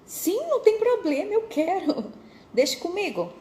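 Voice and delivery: grateful job seeker says yes eagerly. Retold or imitated. Insisting she wants the job.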